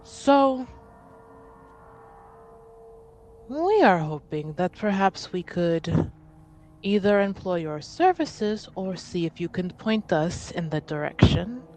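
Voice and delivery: measured, careful official request with long pauses; lightly voiced envoy, stately and deliberate; formal envoy. Envoy making an official request for House Montbéliard, formal and careful.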